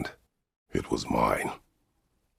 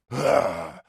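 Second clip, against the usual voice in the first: high, forceful wordless yell; loud effort cry; 6 dB louder than usual. Acted. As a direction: let out a sharp cry, then heavy breaths. Wordless outburst between lines.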